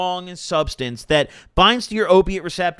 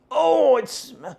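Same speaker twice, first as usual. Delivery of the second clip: excited; 10 semitones higher, 4 dB louder, slower than usual. Real, not acted. First whiff of vape pen.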